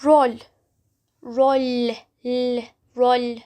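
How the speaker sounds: rol with a light front l, not roll; soft Turkish l. Shown as a demonstration. Teacher models rol, not English roll. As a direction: say rol crisply, no dark English l. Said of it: "not roll".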